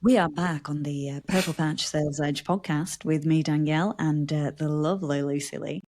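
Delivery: smooth podcast presenter intro; radio voice. Shown as a demonstration. Host reintroducing the podcast and her co-host, radio voice. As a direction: present it in a posh-northern radio voice. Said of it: "Let me do my radio voice".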